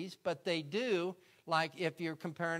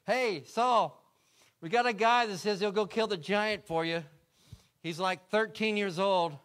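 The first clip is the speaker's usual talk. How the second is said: louder call to the king; 6 dB louder than usual. Acted. Soldier calling out to Saul, louder. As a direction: announce it across the camp. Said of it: "Saul hears about".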